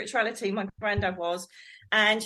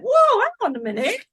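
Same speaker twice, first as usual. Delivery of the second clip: put-on startled child; 8 semitones higher than usual. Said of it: "And I went".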